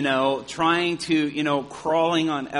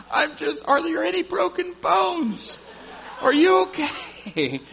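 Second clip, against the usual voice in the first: anxious concern; 7 dB louder than usual. Retold or imitated. Anxious check on the woman.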